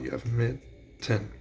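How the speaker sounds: mitten drawn out slowly, syllable by syllable; slow syllable count. Shown as a demonstration. Teacher to students, mitten spoken slowly by syllables. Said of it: "count 'em out".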